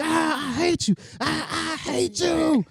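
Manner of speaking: high-pitched wailing tantrum, hammed up; mock screaming. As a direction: imitate a kid screaming through a whooping. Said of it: "I'm yelling and I'm screaming".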